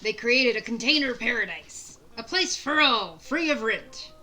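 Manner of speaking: lightly voiced gruff old pirate; a hint of a salty sea captain. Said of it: "doing the pirate voice is really hard".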